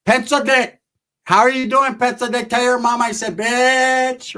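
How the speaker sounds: light mock jeer; a hint of a jeering con; mocking taunt. Roach taunting Theo.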